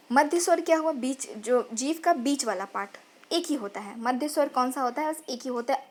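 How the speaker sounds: ordinary delivery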